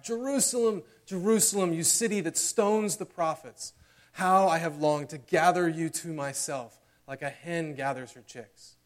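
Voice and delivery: loud, high anguished cry over Jerusalem; Jesus lamenting over the city, crying out in anguish. Retold or imitated. Preacher voicing Jesus crying out over Jerusalem, loud and high. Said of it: "and he cried out".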